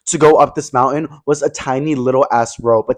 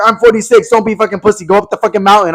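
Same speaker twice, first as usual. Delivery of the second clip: higher, mock tough-guy push; taunting older guy; 6 semitones higher than usual. Forty-six-year-old hiker taunting Pablo, mock tough guy. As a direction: goad him up the mountain.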